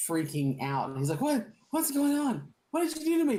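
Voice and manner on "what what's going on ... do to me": much higher squeaky panicked voice; helium voice. Acted. Shrunken prisoner panics at the change, high helium squeak. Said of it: "it sounds like, you know, when you inhale a little bit of helium".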